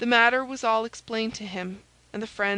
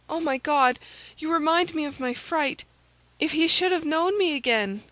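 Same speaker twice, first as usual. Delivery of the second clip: high, louder, alarmed maid; frightened maid Kitty; 7 semitones higher, 4 dB louder than usual. A narrator's reading. Maid reminded of her fright, alarmed. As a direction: exclaim in a high, fearful voice.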